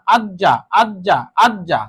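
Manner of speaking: আজ্জা with the জ held double, as আজ-জা; doubled consonant. Shown as a demonstration. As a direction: say আজ্জা slowly, pressing the doubled জ. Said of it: "ওই হরফটা দুইবার পড়তে হবে". (আজ্জা, জ দুইবার চেপে: আজ-জা)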